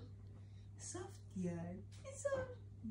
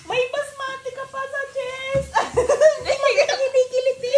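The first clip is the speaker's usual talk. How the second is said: laughing while talking; giggling through the words; 7 semitones higher than usual. Real, not acted. Baby spits rice, laughing. (tumatawa habang nagsasalita)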